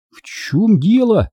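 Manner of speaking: high, drawn-out question; puzzled boy. A narrator's reading. Benjamin puzzled, asks the dog.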